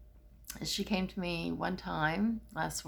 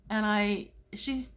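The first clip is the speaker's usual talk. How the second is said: ordinary delivery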